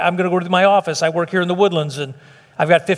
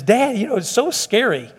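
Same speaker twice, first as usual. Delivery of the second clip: lightly imitated scared daughter, higher at first; mock frightened daughter; 3 semitones higher than usual. Daughter to her trickster dad after a scare, mildly mock-frightened. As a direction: retell it as a frightened daughter's plaintive complaint. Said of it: "she screamed and yelled and was terrified".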